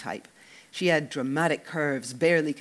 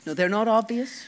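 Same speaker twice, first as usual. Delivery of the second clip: mock reassuring; 7 semitones higher, 4 dB louder than usual. A narrator's reading. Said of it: "Sean reassured him".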